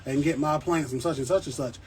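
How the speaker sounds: light mock New York accent; New York accent impression. Vlogger imitating New York plant buyers, light New York accent. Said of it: "they talk like this".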